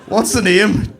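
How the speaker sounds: loud, high question; brash local barista. Acted. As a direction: demand the name across the counter. Same question, rough local barista.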